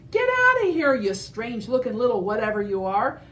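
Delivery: very high, loud shout; urgent shout. Acted. Parasaurolophus warning Edna, high loud shout. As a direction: yell a panicked warning.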